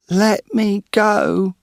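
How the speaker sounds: high, slow pleading woman's voice. A narrator's reading. Caught in the dark shed, woman pleads: high, slow plea. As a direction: beg him to let her go. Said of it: "said a woman's voice".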